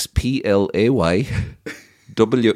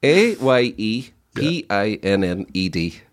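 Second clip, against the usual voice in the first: letters spelled out slowly one by one; slow spelling out; 2 semitones lower, slower than usual. Shown as a demonstration. Spelling out a word for friends, slowly. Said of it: "words I've heard people saying".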